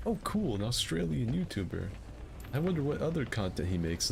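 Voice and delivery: high, chirpy voice of an imagined viewer; high mock viewer voice. A YouTube viewer gushes over a new channel, high and chirpy. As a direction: play an excited stranger discovering the channel. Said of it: "doing an Australian accent".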